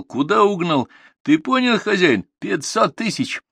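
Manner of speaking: high-pitched calling across a distance; loud voice from afar. A narrator's reading. Stranger by the car bargains for cattle, calling out loudly. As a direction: press the offer, calling it out. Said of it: "раздался от машины громкий голос".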